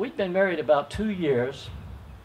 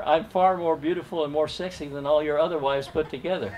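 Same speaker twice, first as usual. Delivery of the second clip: laughing. Real, not acted. Quoting wife's boast, laughing.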